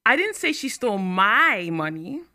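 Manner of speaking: my lifted and slow; my stressed, the sentence slowed. Shown as a demonstration. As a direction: lean on the word my. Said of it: "only that she stole money".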